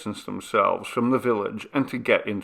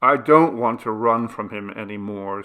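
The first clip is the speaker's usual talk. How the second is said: out of breath; 3 dB louder than usual. Acted. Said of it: "out of breath".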